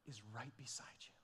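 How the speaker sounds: hushed whisper, drawing the listeners in close. Acted. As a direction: breathe the words as a secret. Preacher drops to a whisper.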